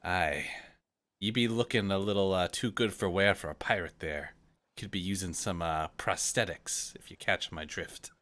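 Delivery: lightly voiced gruff old pirate; a hint of a salty sea dog.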